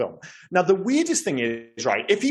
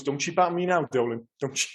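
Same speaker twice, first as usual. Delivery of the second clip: suddenly super serious; 4 dB quieter than usual. Retold or imitated. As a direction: imitate a man abruptly turning serious. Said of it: "suddenly goes super serious".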